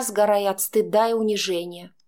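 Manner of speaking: usual speaking voice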